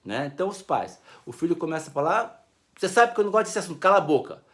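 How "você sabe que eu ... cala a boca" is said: harsh parent. Retold or imitated. Parent silencing child, acted.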